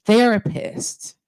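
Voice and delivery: normal talking voice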